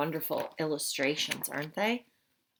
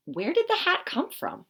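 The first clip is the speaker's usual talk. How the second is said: wondering aloud; 10 semitones higher, 3 dB louder than usual. Acted. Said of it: "thought Mister George".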